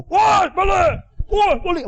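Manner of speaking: high, far-carrying shout; grandma's yell. Retold or imitated. Grandma yelling across the kampung for them to come home. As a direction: call the whole village home. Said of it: "Nenek dia jerit".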